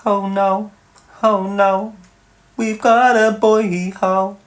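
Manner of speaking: high, slow camp "oh no" in a put-on voice; mock horror at a lad on a sunbed; mock gasp. Teasing a viewer on a sunbed, high mock dismay.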